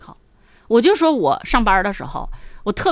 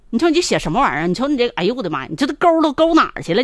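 mock scolding parent; 3 semitones higher, much faster than usual. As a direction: rattle it off like a fed-up mom. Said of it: "如果你说". (快速数落孩子的不耐烦妈妈，越说越高越响)

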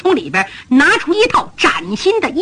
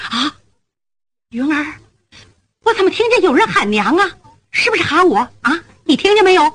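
startled mother; 3 semitones higher, faster than usual. Acted. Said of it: "五夫人吓坏了".

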